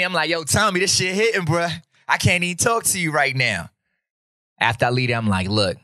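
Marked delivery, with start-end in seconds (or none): 0.3-3.7 higher-pitched retold excitement; acted food rave. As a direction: rave to a friend about the dish, pitched up. Acted rave to Tommy about food.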